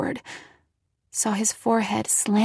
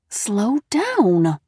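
through gritted teeth; 3 dB louder than usual. A narrator's reading. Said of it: "Mom repeated through gritted teeth".

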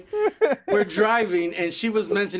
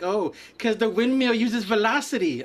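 higher, mock know-it-all quip; smart-ass; 5 semitones higher than usual. Imitating her remark about passing windmills, smart-ass. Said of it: "trying to be a smart ass".

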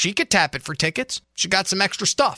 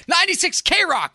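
mock announcement; 12 semitones higher than usual. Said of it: "And I'll go".

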